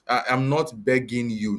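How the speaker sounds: ordinary delivery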